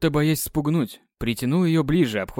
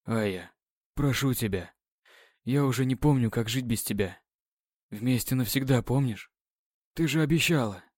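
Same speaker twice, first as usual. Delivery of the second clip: grieving plea; 2 semitones lower, 4 dB quieter than usual. Acted. Grieving over her body.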